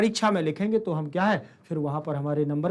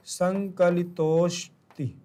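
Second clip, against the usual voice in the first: slow demo; much slower than usual. Shown as a demonstration. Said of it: "अवग्रह के रूप में हो जाएगा".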